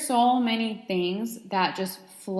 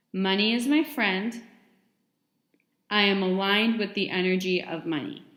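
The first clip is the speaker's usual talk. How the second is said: measured affirmations, long pause after each; unhurried dictation of affirmations; read slowly. Shown as a demonstration. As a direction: read each one deliberately, leaving room to repeat. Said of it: "I'm going to read them slowly".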